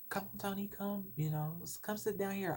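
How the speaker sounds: imitating a sweet boy's urging; kind coaxing. Kind boy's invitation acted out.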